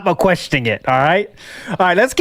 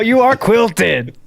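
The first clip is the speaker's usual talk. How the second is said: laughing slow roast; 4 semitones higher, much slower than usual. Acted. Roasting back.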